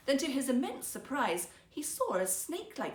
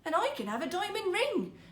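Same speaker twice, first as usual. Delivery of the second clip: higher, breathless with excitement; carried away; 9 semitones higher than usual. A narrator's reading. Wife dreaming of riches, carried away with excitement. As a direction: let the dream carry her away. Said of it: "quite carried away".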